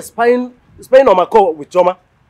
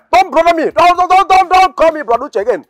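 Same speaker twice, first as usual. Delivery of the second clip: higher, indignant don'ts tumbling out; angry protest; 8 semitones higher than usual. Acted. Brother rejects his sister calling him Brother Uche, higher and indignant. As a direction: refuse the title, rising in pitch.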